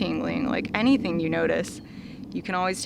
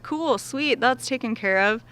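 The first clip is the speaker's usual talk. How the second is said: breezy relief; 5 semitones higher than usual. Retold or imitated. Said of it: "And so I was like".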